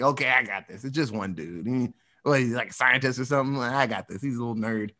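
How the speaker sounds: low, laid-back cocky cop. Retold or imitated. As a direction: brush it off like a smug cop. Cocky policeman.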